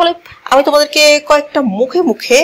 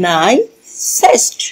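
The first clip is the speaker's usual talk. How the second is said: নাইসেস্ট slowly, broken into নাই and সেস্ট; slow syllable split; 3 semitones lower, much slower than usual. Shown as a demonstration. Teacher showing learners the superlative of nice, slowly split. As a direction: sound out নাইসেস্ট with a gap before the last syllable.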